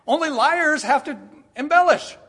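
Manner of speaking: loud, high with a laugh; emphatic. Real, not acted. Preacher to congregation, laughing emphatic zinger. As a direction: land the zinger.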